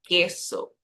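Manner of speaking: queso said slowly as a Spanish example; Spanish pronunciation. Shown as a demonstration. Teacher showing learners the letter Q, careful pronunciation. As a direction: pronounce queso clearly, with a k sound. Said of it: "Voy a decir queso".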